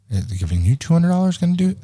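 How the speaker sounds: mocking cop. Mimicking suggestive cop.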